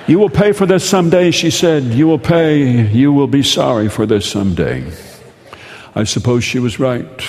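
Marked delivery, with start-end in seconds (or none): 0.0-4.8 sister's threat. Retold or imitated. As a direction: spit out a sibling's revenge promise. Angry sister threatens narrator.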